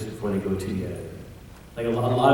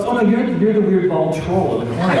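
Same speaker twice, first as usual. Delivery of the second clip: laughing, loud; 8 semitones higher, 7 dB louder than usual. Retold or imitated. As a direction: laugh through the punchline. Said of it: "I was".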